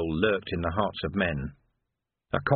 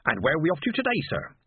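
chatty porter; 6 semitones higher, faster than usual. Acted. Porter Maroon speaks.

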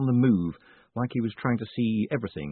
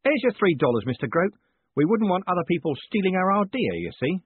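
higher-pitched, persuasive character voice; raised, insistent tenant voice; placating Carlton; 9 semitones higher, 4 dB louder than usual. Acted. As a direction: hand over rent and ask for secrecy.

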